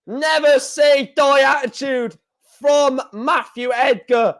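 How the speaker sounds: excited. Real, not acted. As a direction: still riding the high. Still buzzing after checkout.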